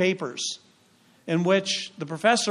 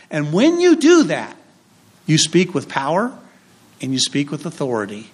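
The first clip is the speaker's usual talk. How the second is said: preaching with force; 3 dB louder than usual. Real, not acted. Preacher building to a point.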